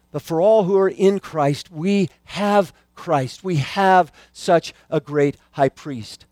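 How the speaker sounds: slow, deliberate preaching; measured pulpit emphasis. Acted. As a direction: lean on each word for the congregation.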